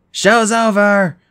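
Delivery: high, loud, slow call; yelled. Acted. Percy yells at the filming Cupids, loud and defiant. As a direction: shout it at the cameras. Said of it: "I yelled".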